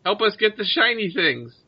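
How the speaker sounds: high creature voice; pleading bird creature. Acted. Bird creature asks adventurers for help, high creature voice. Game master speaks as bird leader.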